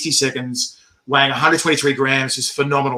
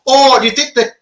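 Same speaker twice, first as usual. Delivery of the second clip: tag; 8 semitones higher than usual. Retold or imitated. Voices co-host's worried question.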